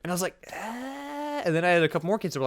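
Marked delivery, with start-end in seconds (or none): 0.5-1.4 high, soft drawn-out "ahh"; hesitant "ah". Retold or imitated. Student urged across class to spray, hesitant high noise. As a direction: hold a small, high noise of reluctance. Wordless reply to friends urging him.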